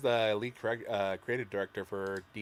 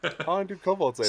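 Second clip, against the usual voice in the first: squeaky yappy lizard chatter; 8 semitones higher, 5 dB louder than usual. Acted. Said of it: "my kobold voice".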